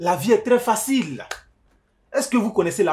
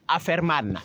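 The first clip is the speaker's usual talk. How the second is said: put-on American accent; 3 dB quieter than usual. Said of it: "Je suis américain".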